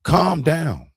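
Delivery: high, loud mock "calm down"; mocking quote. Mocking the pastor telling him to calm down, high and loud. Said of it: "kept on saying".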